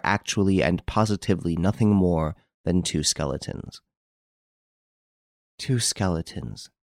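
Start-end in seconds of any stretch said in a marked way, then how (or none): 5.6-6.7 slow, soft, shaken stammer. Acted. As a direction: stumble over it in shock. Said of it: "stammered Hortense".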